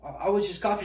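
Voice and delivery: high, loud self-defence; mock protest. Student defending himself to his teacher, loud high protest. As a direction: protest loudly, imitating the accused kid.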